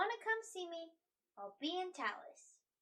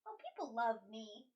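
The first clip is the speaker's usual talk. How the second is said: lower-pitched, straight-faced claim; deadpan; 4 semitones lower than usual. Acted. Companion answers worry about weird looks, deadpan. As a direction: say it in complete earnest, no wink. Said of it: "saying this with a straight face".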